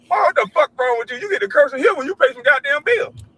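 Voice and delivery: scolding son. Retold or imitated. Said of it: "I was cursing just like that".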